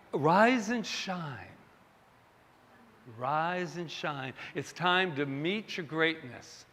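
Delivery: slow, sweet encouragement; gentle wake-up call. Shown as a demonstration. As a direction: ease them awake with love. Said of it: "it wasn't quite that dramatic".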